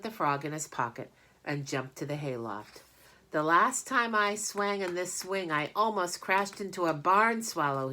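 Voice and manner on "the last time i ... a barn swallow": loud, higher yell. Acted. Avery yelling from the hayloft, loud and higher. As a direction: shout it across the barn. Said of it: "he yelled".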